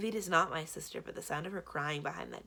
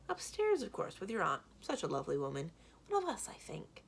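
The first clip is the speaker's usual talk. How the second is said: sly villain; 3 semitones higher than usual. Acted. Blue teasing the kids.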